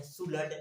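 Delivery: "सुलड" with a clearly sounded l; "सुलड", silent l wrongly voiced; common mispronunciation. Shown as a demonstration. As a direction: say "सुलड" as two syllables, su-lad. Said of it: "बहुत लोग पढ़ते हैं".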